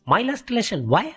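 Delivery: a touch of dismayed protest; mild dismay. Acted. Pupil reacting to news of the last lesson, mildly dismayed.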